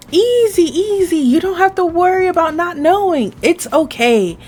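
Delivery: high, soothing coaxing; reassuring. Acted. Soothing a panicking new worker.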